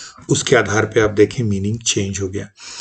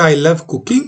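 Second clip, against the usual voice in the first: "I love cooking" set apart with rising end; list with comma; 4 semitones higher, slower than usual. Shown as a demonstration. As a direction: rise on "cooking", then pause. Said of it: "अपना परिवार और अपना कुत्ता".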